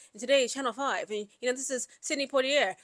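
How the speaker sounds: lightly put-on TV reporter delivery; a hint of news anchor sign-off; fake reporter accent. Shown as a demonstration. Vlogger showing viewers a fake reporter's accent, lightly mocking newsreader. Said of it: "a fake reporter's accent".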